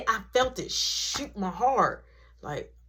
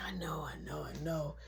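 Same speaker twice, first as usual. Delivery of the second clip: put-on drunk mumble; 6 semitones lower, 14 dB quieter than usual.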